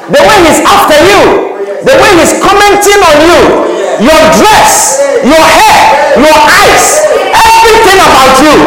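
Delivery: rousing sermon build; rising preaching. Acted. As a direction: build it up for the young women.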